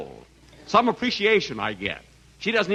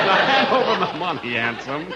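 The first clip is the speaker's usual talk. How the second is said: mock gypsy demand; 4 dB louder than usual. Fortune teller demands his pay.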